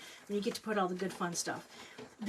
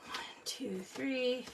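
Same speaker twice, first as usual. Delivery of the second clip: much softer, whispered count; counting under breath; 3 semitones higher, 7 dB quieter, much slower than usual. Shown as a demonstration. Counting aloud, then whispered.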